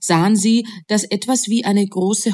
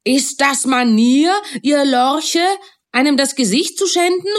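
put-on shouting at the girls; 7 semitones higher than usual. A narrator's reading. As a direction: scold them at full voice. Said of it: "schrie er sie an".

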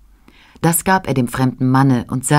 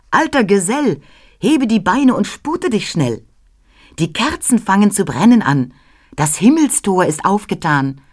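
put-on higher, bright urging child voice; bright child's voice; 3 semitones higher than usual. Christ child urges Knecht Ruprecht to hurry, higher voice. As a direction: hurry the old man along, lightly. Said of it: "mit heller Stimme".

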